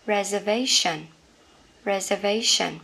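reservation as re-zer-VAY-shun; reservation said right. Shown as a demonstration. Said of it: "cái này sẽ là". (đọc reservation, nhấn vào VAY)

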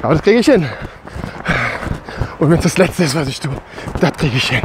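while running. Real, not acted. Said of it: "Ich laufe jetzt mal weiter".

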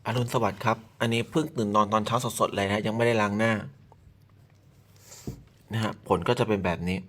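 low, soft just-woke-up voice. Real, not acted. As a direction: still sleepy, fresh out of bed. (เสียงเพิ่งตื่นนอน)

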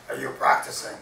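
low, loud pirate voice. A narrator's reading. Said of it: "says the pirate".

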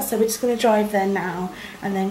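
muffled through fingers; speaking behind hand. Real, not acted. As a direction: hand covering mouth. Seen 0: palm covers mouth until 2.0, then drops to chin.

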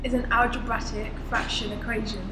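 slow the phrase down on request; said slowly. Shown as a demonstration. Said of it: "Say, say slowly".

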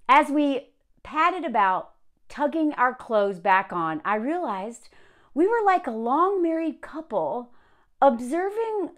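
slow, measured book reading; unhurried narrator's delivery; story narration. A narrator's reading. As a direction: read the passage aloud deliberately. Reads the book aloud.

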